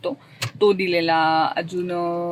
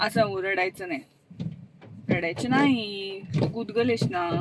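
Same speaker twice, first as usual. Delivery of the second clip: soothing; 6 dB quieter than usual. Real, not acted. Soothing crying baby.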